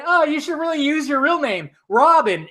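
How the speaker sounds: a high, mocking take on the movie line; quoting the movie line. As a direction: mimic the film's dialogue, lightly mocking. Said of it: "when they said".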